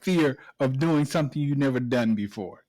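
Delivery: loud, fast mock threat; hammed-up angry threat. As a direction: bark it at him like a tough dad. Mock coach threatening son.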